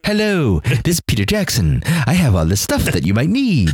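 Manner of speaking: lightly put-on New Zealand accent; a weak New Zealand accent, high hello; bad Kiwi accent. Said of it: "That is the worst Kiwi accent I've ever heard".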